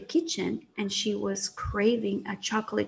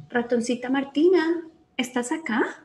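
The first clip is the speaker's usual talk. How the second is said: louder call across the house; 2 semitones higher, 4 dB louder than usual. Acted. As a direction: call her friend from the kitchen. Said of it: "she called out".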